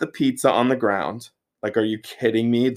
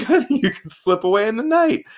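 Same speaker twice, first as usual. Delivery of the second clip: higher, doting worried voice; fretting mother hen; 12 semitones higher, 3 dB louder than usual. Retold or imitated. Brittany mothering him about sleep, a high doting worry. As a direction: fuss over him like a mother.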